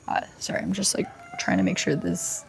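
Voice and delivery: soft unvoiced apology; quiet whispered aside. Real, not acted. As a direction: mutter it off to the side. Aside fixing hair near microphone.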